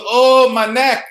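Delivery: high, loud mock whimper of a faker; faking neck pain. Robe guy on my car hood, mock pained whine. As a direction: ham up a fake injury groan.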